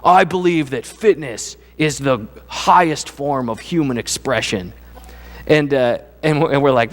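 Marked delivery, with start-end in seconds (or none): 0.0-4.7 slow, earnest TV fitness guy; imitating fitness guy. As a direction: lightly mimic a pumped-up trainer's grand claim, slowly. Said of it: "he looks right at the camera and he goes".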